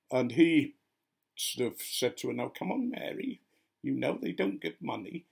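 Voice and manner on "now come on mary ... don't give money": high-pitched imitation of a scarecrow character; Wurzel Gummidge. Boyfriend chiding Mary about money, in scarecrow voice. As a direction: put on a distinctive, high scarecrow voice. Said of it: "said it exactly the way that Wurzel Gummidge would".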